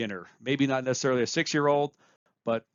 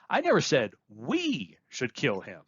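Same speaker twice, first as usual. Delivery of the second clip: we lifted and stretched; we pointed out as the doer; stress on we. Shown as a demonstration. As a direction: lean on we. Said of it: "by where you place emphasis".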